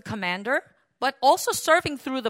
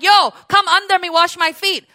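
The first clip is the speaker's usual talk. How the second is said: arrogant boss; 6 semitones higher, 10 dB louder than usual. Retold or imitated. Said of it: "you can't be like".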